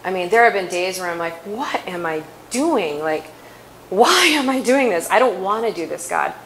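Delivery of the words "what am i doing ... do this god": exasperated. Retold or imitated. Retold exasperated plea to God.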